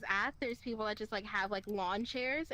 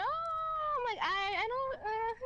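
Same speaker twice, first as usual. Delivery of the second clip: laughing; 13 semitones higher, much slower than usual. Real, not acted. Laughing while retelling awkward date.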